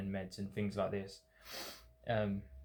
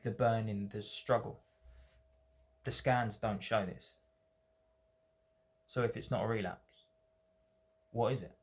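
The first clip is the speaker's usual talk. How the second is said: spoken poem in short, separated phrases; poem reading. Acted. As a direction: recite your own poem with deliberate pauses and falling line ends. Reads second poem aloud.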